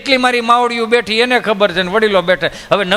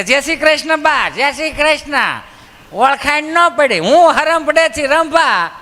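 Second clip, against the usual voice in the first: higher, slow sing-song greeting; 高声慢悠悠的乡下妇女问候; visiting village woman; 5 semitones higher, slower than usual. Acted.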